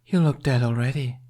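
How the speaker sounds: a detached threat from a cold sorceress; icy Snow Queen. A narrator's reading. Snow taunting Jack on the ice, coldly menacing.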